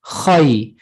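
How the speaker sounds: KHAI with a heavy, rounded "khoy" vowel; tajweed pronunciation. Shown as a demonstration. Teacher showing students the challenging kha, Khai said tajweed-style with rounded vowel. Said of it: "what we call tajweed".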